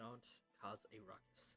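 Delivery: soft, very quiet, flat, businesslike, matter-of-fact. Voicing a character as the party leaves: very matter-of-fact. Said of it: "she says very matter-of-factly".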